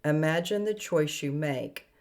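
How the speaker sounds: measured recitation with deliberate pauses; poetic spiritual reading. Acted. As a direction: read it like an incantation, phrase by phrase. Reads meditative written steps.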